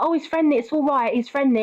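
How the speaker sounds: lightly mocking, lifted voice; retold breezy dog owner. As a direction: mimic someone waving away a complaint.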